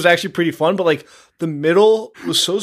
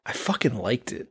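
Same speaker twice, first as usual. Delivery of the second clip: whisper; 5 semitones lower, 10 dB quieter than usual. Real, not acted. Confessing an unpopular opinion.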